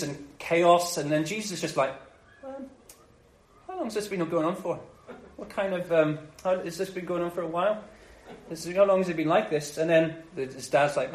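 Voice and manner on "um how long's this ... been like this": mild, understated casual questioning; calm, unfazed. Acted. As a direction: ask softly, as if nothing is wrong. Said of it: "he just kind of calmly says".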